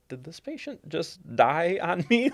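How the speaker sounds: high-pitched worried question; retold panic. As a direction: ask a partner in comic alarm.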